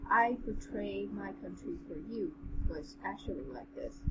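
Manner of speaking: even, measured story reading; story narration. A narrator's reading. Reading the general's tale to a friend, measured narration. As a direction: read it aloud in an understated narrator's voice.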